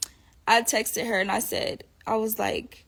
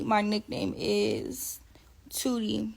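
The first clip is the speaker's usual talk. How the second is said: whispered aside; 5 dB quieter, much slower than usual. Real, not acted.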